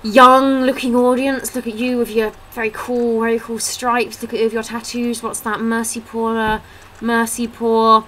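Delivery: comedian's banter. Retold or imitated. Comedian teasing a girl in the front row, mock showy. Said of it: "he comes out and he's like".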